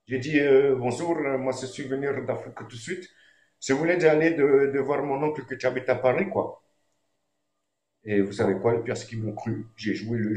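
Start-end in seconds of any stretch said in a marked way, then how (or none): 0.8-6.6 put-on lightly done West African French accent, quick; light mock West African French accent; imitated African accent. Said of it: "j'ai imité un accent au flic".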